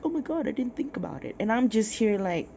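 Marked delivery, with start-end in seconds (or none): 0.0-1.4 fast, higher mock gasp of realisation; mock surprise. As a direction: ham up the dumbstruck friends. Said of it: "It's like".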